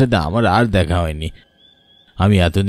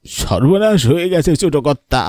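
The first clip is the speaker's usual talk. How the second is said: alarmed cry; 5 semitones higher than usual. Acted. Servant bursts in with disaster.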